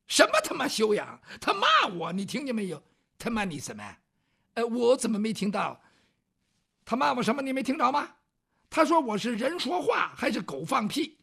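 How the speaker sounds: angry ruffian. Acted. Angry ruffian shouting at scholar.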